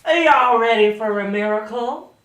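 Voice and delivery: booming Southern American preacher, high and loud; over-the-top American televangelist accent. Acted. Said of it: "I'll go back to my normal accent".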